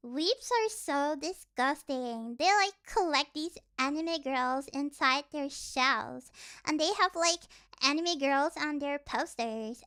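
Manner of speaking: lightly mock a snobby critic; mocking normie. Streamer mimicking people who sneer at weebs, mild mockery. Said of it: "They be complaining".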